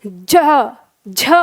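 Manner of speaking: ज and झ said alone, झ with a breathy release; consonant demo. Shown as a demonstration. Teacher sounds ज and झ for the class, deliberate. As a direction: model ज then झ for students to copy. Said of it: "उच्चारण करिए".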